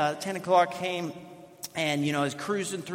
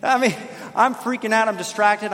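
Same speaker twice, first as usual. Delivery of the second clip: flustered panic; 4 semitones higher, 5 dB louder than usual. Retold or imitated. Retelling panic before preaching.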